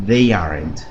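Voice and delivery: teacher modelling a contraction; low model phrase. Shown as a demonstration. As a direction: say "they aren't" low and clear. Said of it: "puedo decir".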